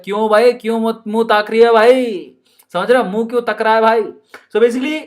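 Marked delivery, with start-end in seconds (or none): 0.0-2.3 put-on Rajasthani accent. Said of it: "Rajasthan में ऐसे बोलते हैं".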